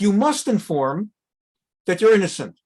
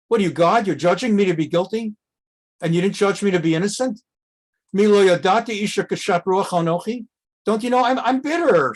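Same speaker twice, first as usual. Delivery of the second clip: sharp retort; 3 semitones higher than usual. Retold or imitated. A woman accused of drunkenness answers the priest, mildly sharp. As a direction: snap back without real anger. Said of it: "It was rather sharp".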